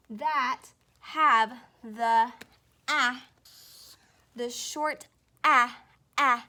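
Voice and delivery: ah said loud and drawn out; loud stretched ah for learners; emphatic sound call. Shown as a demonstration. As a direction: hit each ah hard and slow. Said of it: "teacher stresses target sound".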